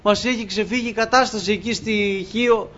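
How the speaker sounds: angels shouting. Retold or imitated. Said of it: "να φωνάζουν".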